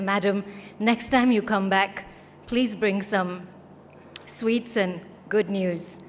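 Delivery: slow, smiling request for sweets and good news; smiling officer. Retold or imitated. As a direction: beam as you ask, drawing each word out slowly. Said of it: "has this big smile on her face and says".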